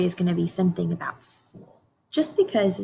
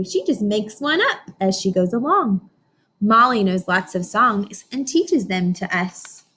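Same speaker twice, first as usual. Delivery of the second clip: put-on reading to children. Teacher reads picture book aloud.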